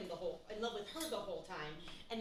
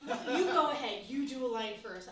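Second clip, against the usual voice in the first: laughing, pushing it off; 8 dB louder than usual. Retold or imitated. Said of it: "she's like".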